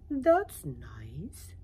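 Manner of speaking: breathy whispered snail voice; a snail's uncaring whisper; whispery snail. Acted. Snail answers the caterpillar.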